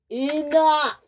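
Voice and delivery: high, sharp stop order; screamed. Acted. Sir Topham Hatt silencing the engines, shouting. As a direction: cut them off hard. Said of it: "screamed Sir Topham Hatt".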